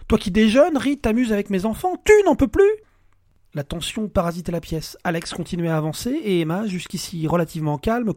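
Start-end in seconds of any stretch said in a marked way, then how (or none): 0.1-2.7 outraged mocking shout. Alex mocking her complaint.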